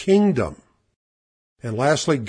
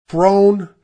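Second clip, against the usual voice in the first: "throne" set apart, high and loud; stress on THRONE; 6 semitones higher, 8 dB louder than usual. Shown as a demonstration. Preacher pointing out the key word to listeners, "throne" punched high. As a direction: punch "throne" hard after a pause. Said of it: "the emphasis on".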